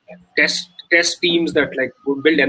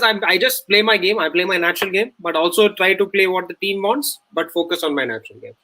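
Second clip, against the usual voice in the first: high mock player interview voice; imitating Pant; 5 semitones higher than usual. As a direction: parrot the stock interview answer. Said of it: "he says".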